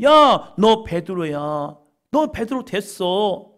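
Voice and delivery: loud call, then a slow emphatic naming; Jesus calling Peter. Acted. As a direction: call him out, then declare it slowly. (베드로를 부르시는 예수님, 크게 부른 뒤 천천히)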